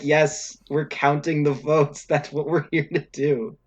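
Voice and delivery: a hint of an eager official stating the obvious; poll worker. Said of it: "people are literally like".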